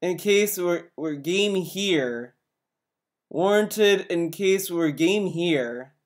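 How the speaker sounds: slow robotic mimic of the clip. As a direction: drag it out like a stilted robot voice. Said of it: "stop with these robot voices".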